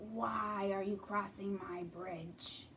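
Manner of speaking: slow, menacing troll voice; lightly voiced mean troll. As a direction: drag it out like a troll guarding his bridge. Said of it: "a mean troll".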